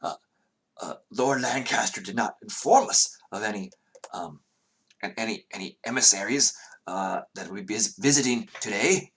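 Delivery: mildly flustered, halting protest; flustered guard. Acted. Guards caught out by unexpected emissaries, mildly flustered. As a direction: stumble a little over the words, lifting at the end. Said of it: "the guards look flustered and they say".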